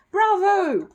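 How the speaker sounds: loud, high cheer from the audience; an excited theatregoer shouting. Acted. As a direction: call out your applause. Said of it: "shouted someone".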